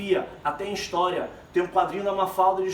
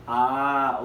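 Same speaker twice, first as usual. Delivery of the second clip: drawn-out, lower "ah" of pondering; thinking it over; 6 semitones lower, 3 dB louder than usual. Acted. Teacher acts out Mafalda's father stuck for an answer, thinking aloud. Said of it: "Né, pensando".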